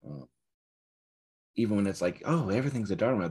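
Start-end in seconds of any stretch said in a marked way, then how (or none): 2.2-3.3 gushing. Retold or imitated. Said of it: "I'm layering that on top".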